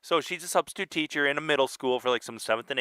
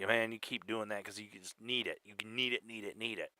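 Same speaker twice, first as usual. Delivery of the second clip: meth head voice; 2 semitones lower, 10 dB quieter than usual. Retold or imitated. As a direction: hiss it like an addict. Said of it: "the meth people are like".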